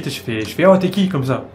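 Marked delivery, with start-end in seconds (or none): 0.7-1.1 shouting. Retold or imitated. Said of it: "je crie".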